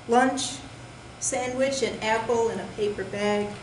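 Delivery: measured poetry recital in short, separated phrases; deliberate delivery with pauses between lines; poem reading. Acted. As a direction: read your poem to an audience, landing each phrase. Reads own poem aloud.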